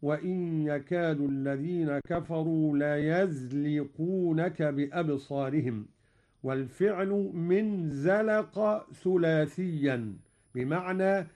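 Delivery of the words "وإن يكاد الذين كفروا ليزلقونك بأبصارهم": Quran recitation. Acted. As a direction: recite it with tajweed. (تلاوة مجودة)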